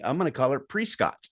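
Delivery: "Prescott" said as pree-scot; deliberate mispronunciation. Shown as a demonstration. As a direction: stretch the first syllable of "Prescott" to "pree". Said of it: "just to piss you off".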